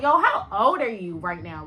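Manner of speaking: mildly exasperated, stressed question; irritated questioning. Retold or imitated. Asking the drunk girl her age, irritated. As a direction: demand it in mock disbelief.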